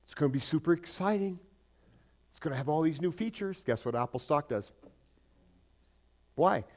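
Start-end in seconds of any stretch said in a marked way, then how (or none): 0.0-3.6 loud, higher, fast sales hype; hammed-up tech announcer; mock product pitch. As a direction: hype the new phone like a keynote. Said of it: "and he says".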